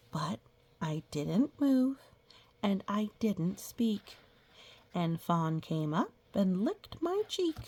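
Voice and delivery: slow, drawn-out storybook reading; reading to children. Acted. Teacher reading a picture book to the class, storybook voice. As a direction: read it like a picture book for little kids.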